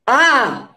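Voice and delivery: half-hearted yell with a sudden vocal onset; demonstrated cry. Shown as a demonstration. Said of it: "ou um grito".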